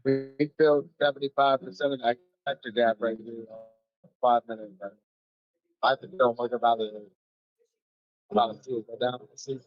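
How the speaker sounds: underwater. Real, not acted. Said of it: "you sound like you're underwater".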